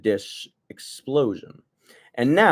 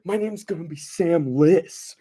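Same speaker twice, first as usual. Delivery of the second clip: lisping mock self-intro; mock lisp name; 6 semitones higher than usual. Joking about his name, high lisping mock voice. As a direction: say it with a put-on lisp.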